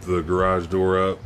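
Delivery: blissed-out high voice; stoned. Real, not acted. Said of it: "I'm extremely high".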